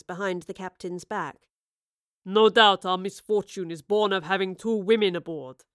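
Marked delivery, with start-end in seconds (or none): 2.2-5.6 captain complains of the ill winds. A narrator's reading. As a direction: grumble it like an old salt. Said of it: "the captain ventured".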